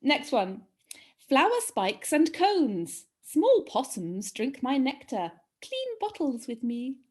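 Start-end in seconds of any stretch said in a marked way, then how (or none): 1.3-7.0 slow, swooping riddle reading; deliberate, lilting clue delivery; riddle recital. Acted. Quizmaster posing the next plant riddle, riddle recital.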